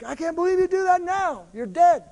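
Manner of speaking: a hint of an angry outcry; retold angry outburst. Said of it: "And I'm like".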